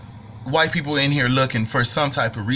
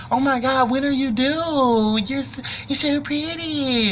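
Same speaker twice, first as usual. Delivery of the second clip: gushing white lady; 9 semitones higher, slower than usual. Retold or imitated. White lady gushing at pregnant Nat.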